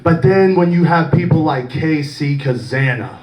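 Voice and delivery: measured, solemn promo to the camera; lightly voiced babyface promo; serious wrestling promo. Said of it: "Okay, perfect, perfect".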